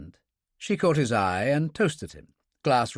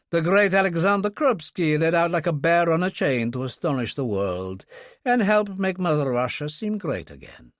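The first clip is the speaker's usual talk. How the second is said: higher, grandly declaimed self-mockery; no apparent bitterness; 6 semitones higher than usual. A narrator's reading. Kurbsky presents himself to Dunkley, no apparent bitterness. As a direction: announce yourself lightly, without bitterness. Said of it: "delivered with no apparent bitterness".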